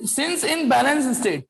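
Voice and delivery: drawn-out, word-by-word board dictation; slow dictation. Real, not acted. Teacher writing the answer for students, slow dictation. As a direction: say it very slowly while writing.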